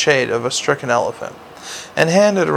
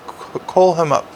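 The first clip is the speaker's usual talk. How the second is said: commanding; 2 semitones higher than usual. Acted. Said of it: "Sybil commanded".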